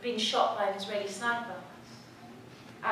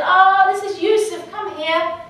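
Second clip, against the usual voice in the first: higher, louder motherly call; calling a child over; 8 semitones higher, 10 dB louder than usual. Retold or imitated. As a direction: voice a mother calling her little boy over. Mother calls her son over.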